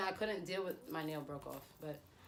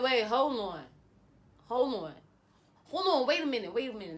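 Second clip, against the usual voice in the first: high, loud "hold on" outburst; outraged girlfriend halting her ex, loud and high; indignant; 4 semitones higher, 6 dB louder than usual. Retold or imitated. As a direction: stop him cold, high and loud.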